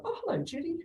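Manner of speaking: mock-cheery client voice; friendly client on the phone. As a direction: gush like a relieved client answering. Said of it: "they go".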